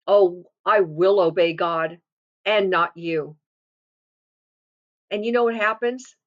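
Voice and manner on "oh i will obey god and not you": low, slow, deliberate defiance; strong and resolute. Acted. Believer refusing the enemy's orders, strong and resolute. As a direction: stand firm, weighting each word in a lowered pitch. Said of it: "we say it strong to him".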